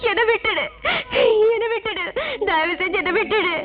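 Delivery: sobbing please let me go; woman begging the ghost to spare her, crying. Acted. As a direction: beg through tears.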